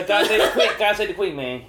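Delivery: mock Hispanic accent. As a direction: belt it out in a jokey Hispanic accent. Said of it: "with a Hispanic accent".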